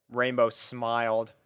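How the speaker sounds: usual speaking voice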